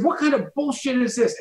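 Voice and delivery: very high, exasperated mock outrage; mock angry. Comic berating his host onstage, mock outrage. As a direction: demand an answer in hammed-up indignation. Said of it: "I got angry".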